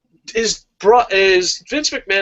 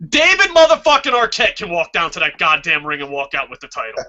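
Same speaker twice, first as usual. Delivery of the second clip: worked up; 3 dB louder than usual. Real, not acted. Fed-up fan making a crazy suggestion, worked up. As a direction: hit the name hard in a real rant. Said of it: "get all emotional there".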